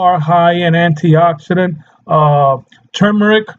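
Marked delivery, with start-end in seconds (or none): 2.9-3.5 turmeric with a clear R in the first syllable; turmeric, opening on TER; pronounced TER-mer-ic. Shown as a demonstration. Shows two ways to say it.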